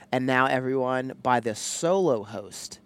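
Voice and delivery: drawn-out, grand host introduction; show announcer. Pretend. Husband grandly introducing his wife as solo host, announcer style.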